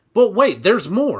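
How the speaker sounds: forceful, hard-selling, loud emphatic delivery. Describing someone selling a kitchen gadget, the speaker does a Billy Mays pitchman voice. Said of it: "like they're doing like the sham wow".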